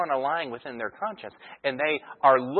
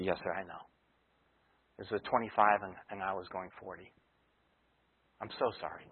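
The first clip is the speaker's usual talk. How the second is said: very soft, lower, hammed-up contrite plea; mock tearful apology; 5 semitones lower, 6 dB quieter than usual. Driver to the police officer, mock tearful apology. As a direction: play the sorry driver who hopes to dodge the ticket. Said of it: "and you start crying".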